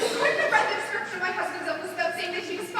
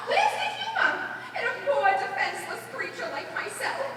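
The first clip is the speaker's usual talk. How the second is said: laughing indignation. Acted. Woman indignant at being laughed at.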